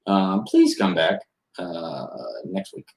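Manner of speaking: nervous doorman shooing them away; timid little man. Acted. Tiny thin man at the door telling visitors the mayor is out, squeaky then fading. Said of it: "pokes his head out and says".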